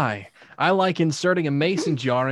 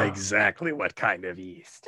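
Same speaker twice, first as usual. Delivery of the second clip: hushed, unvoiced, lower tease; teasing whisper; 7 semitones lower, 4 dB quieter than usual. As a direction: whisper it like a dirty secret. Teasing whisper about the yeast.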